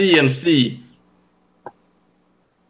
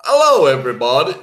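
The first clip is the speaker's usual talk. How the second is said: attempted American accent greeting; 4 dB louder, faster than usual. Shown as a demonstration. Taking a turn at the accent challenge, put-on American accent. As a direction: try on an American accent, a little exaggerated. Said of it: "do your best American accent".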